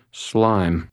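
slightly slurred, groggy word. A narrator's reading. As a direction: mumble it half-dazed. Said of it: "in a slightly slurred voice".

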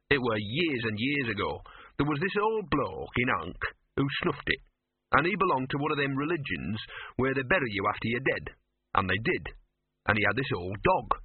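lightly voiced streetwise mutt; storytelling dog. Dog telling Victor of his namesake, lightly voiced. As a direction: recount it as a scruffy old stray.

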